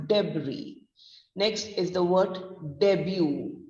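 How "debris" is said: debris said deb-ree with silent s; silent-s pronunciation. Shown as a demonstration. Teacher summing up the pronunciation, final s silent. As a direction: end debris on a long ee. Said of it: "So it's pronounced as".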